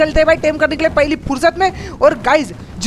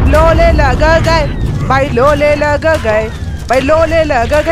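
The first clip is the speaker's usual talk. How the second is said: loud, very slow stretched syllables; drawn-out wail; 3 dB louder, much slower than usual. Real, not acted. Gamer under sudden attack, slow loud wailing. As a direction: wail it out slowly, word by word.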